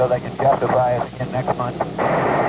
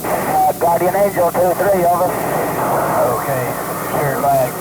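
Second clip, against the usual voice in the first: crackly military radio. Real, not acted. Pilot and ground camp on radio.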